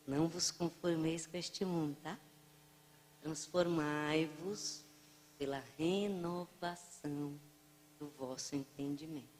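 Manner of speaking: softly reciting the verse under her breath; the old woman quietly quoting scripture to excuse not eating. Retold or imitated. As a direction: murmur it like a confession. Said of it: "Aí ela falou bem baixinho".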